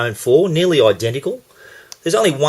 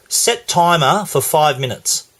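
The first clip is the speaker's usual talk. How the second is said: slow, measured command to a phone; careful, unhurried machine instruction; deliberate voice command; 2 semitones higher, slower than usual. Real, not acted. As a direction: dictate it slowly for the voice assistant. Dictating a command to Siri.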